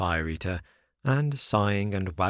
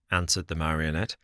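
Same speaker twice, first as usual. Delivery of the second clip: ordinary delivery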